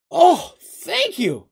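very high, loud, drawn-out thanks; excited exclamation. A narrator's reading. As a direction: gush it like an overjoyed little gully. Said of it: "the little gully exclaimed".

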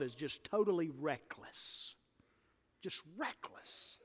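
whispered, dropping to almost nothing; hushed whisper. Real, not acted. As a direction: pull them in with a whisper. Sudden hush in sermon.

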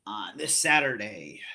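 mild put-on event announcer read; announcer-ish voice. Podcaster announcing Crown Jewel in a mild announcer voice. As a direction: lightly hype the show like a promo. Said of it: "I don't know why I'm talking like this".

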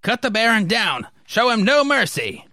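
high, urgent soldier's shout; battle order. Acted. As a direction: shout a high-pitched attack command.

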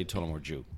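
Tullamore Dew with DEW said like "Jew"; Irish pronunciation. Shown as a demonstration. Guest explains how Ireland says it, Tullamore Dew with a "joo" ending. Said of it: "in Ireland, we say".

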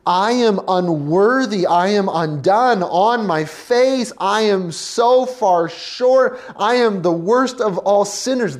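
loud, pleading cry of unworthiness; humbled cry. Acted. Believer meeting Jesus, loud humbled cry. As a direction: pour it out face down.

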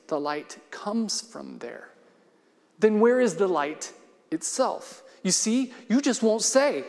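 expressive read-aloud of a short story, Robin's lines voiced. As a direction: read it to the congregation, lingering on the pauses. Pastor reads C S Lewis story aloud.

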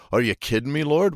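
rising high in disbelief on Lord; can't believe what he's hearing; incredulous. Retold or imitated. Gideon questions the Lord in disbelief, pitch rising.

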